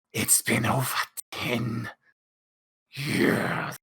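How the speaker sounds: hushed, tense confession; quiet tense. Acted. Charles reacting to hearing Wendigo, hushed and tense.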